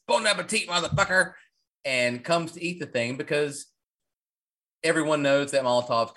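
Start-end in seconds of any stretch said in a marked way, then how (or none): 0.1-1.3 quoted taunt. Retold or imitated. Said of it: "and says".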